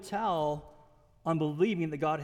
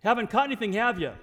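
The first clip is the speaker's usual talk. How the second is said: pointed question, tag dropping at the end; knowing challenge; 2 semitones higher, 5 dB louder, faster than usual. Shown as a demonstration. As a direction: state it as known, then drop onto "have you".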